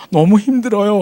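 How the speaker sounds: high-pitched imitated near-crying; mock a young attendant welling up; tearful complaint. Attendant breaking down when a passenger sympathises, imitated tearful voice. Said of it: "아가씨 바로 울어버려".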